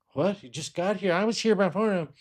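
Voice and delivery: high-pitched indignant complaint; mock annoyed patient. Imitating a jealous waiting patient, high indignant. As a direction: play the patient who waited longer. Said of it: "impersonating annoyed waiting patient".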